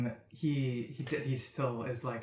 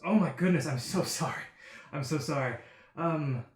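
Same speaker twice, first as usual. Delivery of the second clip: gushing stranger. Acted. Flamboyant stranger fawning over the adventurers. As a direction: gush over the party like a starstruck fop.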